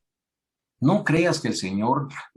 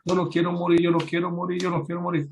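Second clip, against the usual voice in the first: higher mock whimper, fading; mock crying; 7 semitones higher, faster than usual. Preacher mocks a crying king begging God. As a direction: whine it over and over like a sulking child. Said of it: "Ezequiel llorando".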